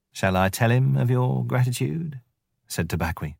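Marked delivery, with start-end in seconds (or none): 0.1-2.2 higher, fawning jackal, lightly voiced; sly jackal voice. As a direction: grovel like a sneaky jackal.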